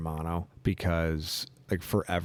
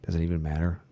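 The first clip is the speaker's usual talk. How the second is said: ordinary delivery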